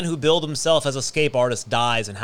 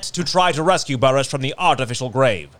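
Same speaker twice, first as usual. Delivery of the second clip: put-on old newscaster voice; 3 semitones higher than usual. Shown as a demonstration. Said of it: "should I read it like a old newscaster?".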